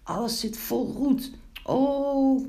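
high-pitched, acted laughing fit; laughing hard. A narrator's reading. Wiebelstaartje mocks his sooty friend, laughing hard. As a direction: crow with laughter at the sight. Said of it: "toen moest Wiebelstaartje vreselijk lachen".

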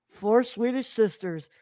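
slow, dramatic trailer narrator; movie trailer narrator. Pretend. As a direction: announce it like an epic trailer. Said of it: "classic movie trailer narrator".

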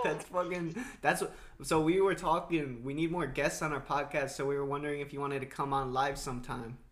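hyped. Real, not acted. Hyped invite.

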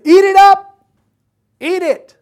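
high, loud booming order; commanding angel. Retold or imitated. The angel ordering John to eat the book, loud. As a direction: boom the command down from heaven. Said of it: "The angel gives him an assignment".

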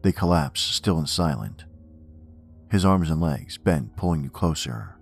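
measured, ominous poem recital; poem reading. Acted. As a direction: recite it darkly, line by line. Reads horror poem aloud.

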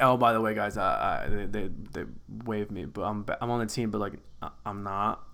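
low, soft, halting mumble; acted embarrassed backpedalling; sheepish confession. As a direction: mumble the bad news to the guys. Acted awkward confession to the guys.

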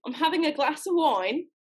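tentative copy in put-on British; amateur British accent; attempted British accent. Shown as a demonstration. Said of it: "Let's see if it works that way".

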